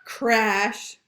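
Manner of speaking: loud sound-effect word; mock crash. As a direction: punch the crash.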